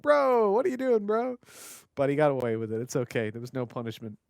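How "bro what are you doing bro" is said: higher, imitating an incredulous player; mock bro voice. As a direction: play a put-out teammate complaining to his bro. Mimics players picking up "bro.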